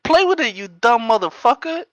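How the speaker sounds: high loud insult; mock angry yell. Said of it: "She was like".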